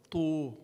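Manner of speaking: "tu" with lips rounded forward for the u vowel; ta with the u sound. Shown as a demonstration. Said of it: "the ta with the uh sound, for example".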